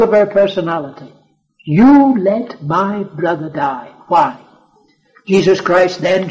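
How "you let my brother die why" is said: slow, bitter reproach; bitter accusation. Acted. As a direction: accuse him, slowly and bitterly. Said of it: "an accusation revealing the bitterness in her heart".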